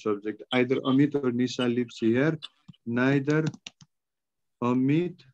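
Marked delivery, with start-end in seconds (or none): 2.9-5.2 long pause between the words; word-by-word dictation. Real, not acted. Teacher leading students through an answer, word-by-word dictation. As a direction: hand it out one word at a time.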